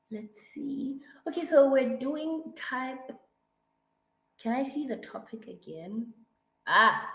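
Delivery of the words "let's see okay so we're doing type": whispering. Real, not acted. Muttering to herself while reading.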